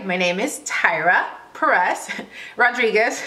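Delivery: giggling through her own name. Real, not acted. Introducing herself to viewers, breaking into a giggle. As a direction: laugh it out mid-introduction.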